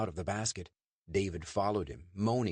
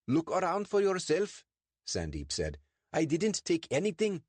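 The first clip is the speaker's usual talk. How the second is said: higher, quick defensive answer; nervous Sandeep; 11 semitones higher, 3 dB louder than usual. Acted. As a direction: claim the truck a little too fast. Sandeep invites the search.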